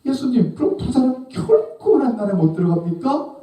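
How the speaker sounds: very high-pitched protesting question; incredulous disciples. Acted. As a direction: press the teacher in disbelief. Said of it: "그래서 제자들이 묻는 거예요".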